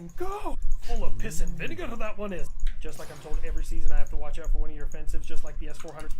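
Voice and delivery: booming, gleeful taunting; loud mock taunt. Streamer mocking the enemy, loud gleeful taunt. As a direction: crow loudly over the enemy.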